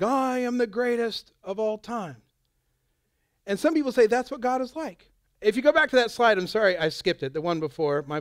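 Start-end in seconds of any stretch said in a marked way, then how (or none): 0.0-2.2 Muhammad Ali. Retold or imitated. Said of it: "Muhammad Ali is like".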